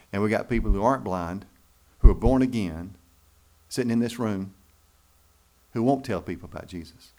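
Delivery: loud, driving preacher's rebuke; rising pulpit challenge; preaching at full force. Real, not acted. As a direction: call the room out, full voice. Preacher confronting congregation.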